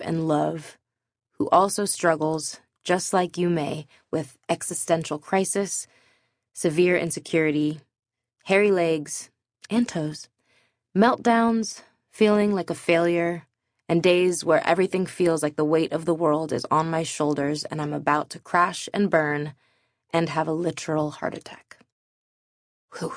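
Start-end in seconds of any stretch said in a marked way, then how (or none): 1.4-21.8 rushing the list without breathing; one breath, no pauses to the end; all in one breath. Real, not acted. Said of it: "I said that all in one breath". 23.0-23.1 big breath out after a long run; relieved exhale. Real, not acted. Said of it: "I said that all in one breath".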